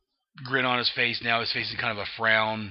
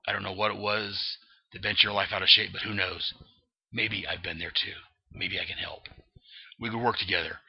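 Batman; 2 semitones lower than usual. Acted. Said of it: "And Batman's like".

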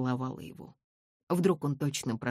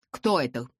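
rising alarm; 3 semitones higher, 3 dB louder than usual. A narrator's reading. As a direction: ask again, more urgently. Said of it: "повторял он".

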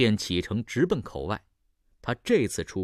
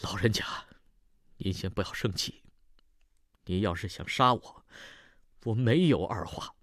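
sorrowful. Acted. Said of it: "李芬悲切地说". (悲切低声恳求)

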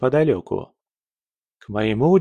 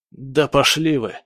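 snapping; 3 semitones higher than usual. Acted. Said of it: "огрызнулся раненый".

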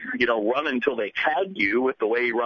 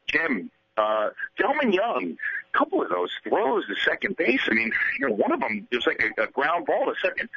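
reporter question; 6 semitones higher than usual. Retold or imitated. Reporter asking Leyland.

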